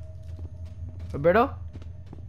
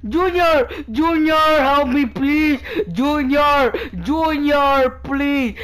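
calling for help; 3 semitones higher, much slower than usual. Real, not acted. Begging friend for help in game.

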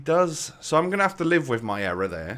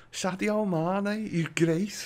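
high, drawn-out Scouse impression; slow squeaky mock Scouse; silly Scouse accent; 9 semitones higher, slower than usual. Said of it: "Silly Scouse accent videos mostly".

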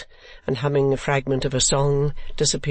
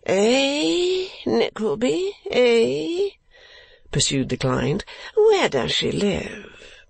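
put-on foppish young lord; 11 semitones higher, much slower than usual. A narrator's reading. Lord Verisopht voiced.

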